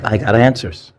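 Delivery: light synthetic robot voice; a hint of an old speech synthesizer; computer voice. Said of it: "That's my computer voice".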